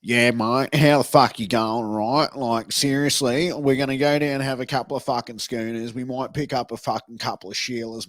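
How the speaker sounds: a mild imitation of an Australian bogan, bragging to a mate. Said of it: "I'll give you a bogan talking".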